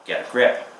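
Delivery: measured, unhurried poetry reading; poem reading. Acted. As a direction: read it as a poem, letting each image land.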